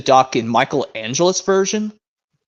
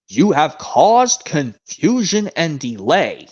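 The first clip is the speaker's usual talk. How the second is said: stern Sir Tom; much slower than usual. Retold or imitated. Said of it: "the speaker says".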